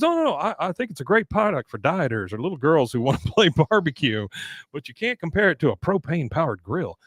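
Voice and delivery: high, prissy put-on voice; snooty clerk voice. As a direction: condescend with fake politeness. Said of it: "He goes".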